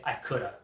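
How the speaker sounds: COULDA as one word, low and soft; casual, dropped "coulda"; "coulda" with no h, falling; reduced spoken form. Shown as a demonstration. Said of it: "most people will just say".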